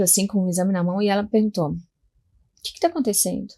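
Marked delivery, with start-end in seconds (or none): 1.7-3.5 a lightly voiced dry doctor asking; curt dry question. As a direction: ask it short and dry. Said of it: "Bem, bem seca". (pergunta seca e curta)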